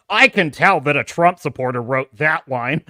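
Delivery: low, mock-snooty critic; imitated shill. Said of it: "even the shills would be like".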